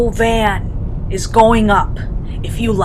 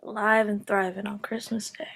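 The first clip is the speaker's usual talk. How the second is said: soft, voiceless whisper; 14 dB quieter, faster than usual. Acted. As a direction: breathe it out, spent. Exhausted quiet moment.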